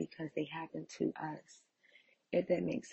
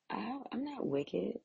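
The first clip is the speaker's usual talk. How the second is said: put-on old self protesting; 6 semitones higher than usual. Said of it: "the old me, right, would say".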